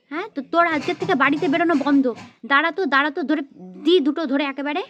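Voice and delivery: cross scolding with insistent questions; exasperated telling-off; angry mother. Acted. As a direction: scold your child for coming home late. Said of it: "মা তো দেখছি পুরো ক্ষেপে গেছে".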